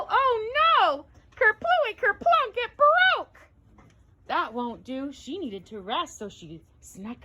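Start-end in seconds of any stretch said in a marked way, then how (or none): 0.1-3.4 much higher, building to a dramatic cry; excited alarm. A narrator's reading. Parent telling the chair breaking, high excited cry. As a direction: sound the alarm as the chair gives way.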